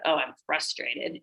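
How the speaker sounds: soft and slow, just noticing the feeling; calm self-naming. Shown as a demonstration. Naming your own frustration to calm it, soft and slow. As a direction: say it quietly to yourself, unhurried. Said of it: "just be like".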